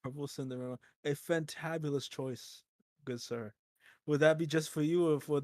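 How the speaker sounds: overly polite restaurant server; bow and serve with exaggerated courtesy; posh waiter voice. GM plays a fancy waiter.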